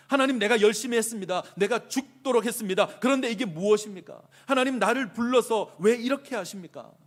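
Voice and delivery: very loud, high cry to God; anguished protest. Acted. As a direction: hurl the complaint up at God. Acts a worn-out believer's protest.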